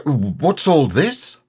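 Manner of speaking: slow, puzzled question; surprised Heffalump. Pretend. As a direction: caught off guard. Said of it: "Piglet, surprised".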